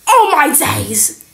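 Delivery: loud, high, stretched exclamation; alarmed gasp. Acted. Snooper hears Miss coming, alarmed outburst. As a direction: burst out in sudden panic. Startled while snooping, teacher arriving.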